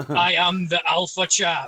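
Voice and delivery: slow, hammed-up proclamation; pompous boast, each word weighed out; mock-grandiose. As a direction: declare it like a mock deity.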